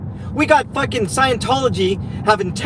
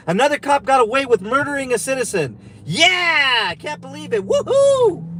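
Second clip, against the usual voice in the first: high mock cheering with whooping; sarcastic celebration; 4 semitones higher than usual. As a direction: fake overjoyed, bitterly celebrate the injustice.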